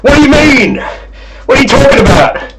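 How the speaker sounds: squealing mock outrage; mock indignant. Real, not acted. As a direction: play offended at the comment. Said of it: "hold back on the lively YouTuber spirit".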